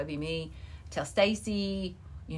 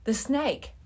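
breathless gasp; 5 semitones higher, slower than usual. Retold or imitated. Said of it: "all I could literally say out of breath was".

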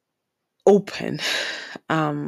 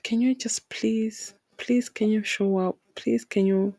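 pleading with a machine; 3 semitones higher than usual. Real, not acted. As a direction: beg the phone to finally work. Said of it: "I'm begging my phone".

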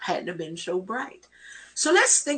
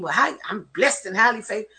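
smug brush-off; 2 semitones higher, faster than usual. Retold or imitated. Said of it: "do your neck like this and to be all mean".

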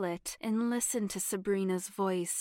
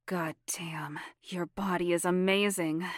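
whispered. Acted. Aroused man admiring partner.

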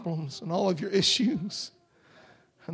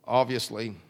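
lightly mocking a prosperity preacher asking for money; mock slick preacher; 4 semitones lower than usual. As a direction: sell it with fake concern. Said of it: "he didn't say".

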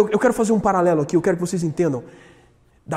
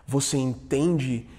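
soft reflective close; 8 semitones lower, 9 dB quieter than usual. Real, not acted. Quiet closing reflection.

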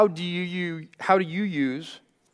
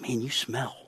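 put-on softer, hushed kid's blunt verdict; 4 semitones lower, 8 dB quieter than usual. Seven-year-old tells coach he smells, hushed blunt kid voice. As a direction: drop it quietly like a kid's honest jab. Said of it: "He's like".

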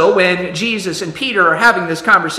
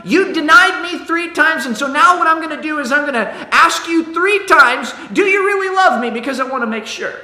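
higher, pointed mock grudge voice; hammed-up hurt and accusing; mock resentful Jesus; 6 semitones higher than usual. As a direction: play a petty, score-settling Jesus. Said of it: "holding things against people like".

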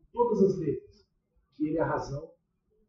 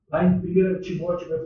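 ordinary talk, nothing marked

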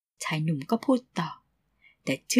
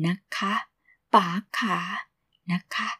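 soft mock cooing นะคะ ป๋าขา; soap sugar baby; 4 dB quieter than usual. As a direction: coo like a TV mistress. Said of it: "คำที่เคยได้ยินจากละคร".

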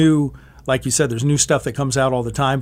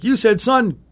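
high, amused caller voice; 9 semitones higher, 3 dB louder than usual. Retold or imitated. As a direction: play the laughing caller, pitched up. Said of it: "He's like".

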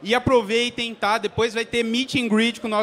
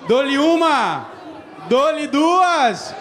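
auctioneer buildup; 3 semitones higher, much slower than usual. Acted. Auctioneer-style buildup before throwing card.

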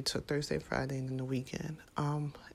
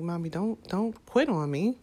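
imitating pleading child; 4 semitones higher, 5 dB louder than usual. Son voiced pleading with mom.

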